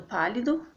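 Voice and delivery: "pálido" with the beat on pá; antepenultimate stress. Shown as a demonstration. Teacher pointing out the tonic syllable, stressing pá in "pálido". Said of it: "A sílaba tônica tá no pá".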